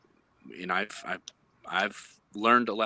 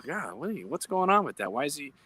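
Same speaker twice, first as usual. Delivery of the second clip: higher-pitched, mock-puzzled questions; puzzled questioning; 5 semitones higher than usual. Listener reacting to an ambiguous remark, puzzled. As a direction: act out a baffled listener.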